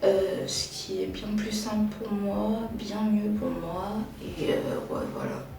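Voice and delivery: sleepy vocal fry; morning voice. Real, not acted. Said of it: "c'est ma voix du matin".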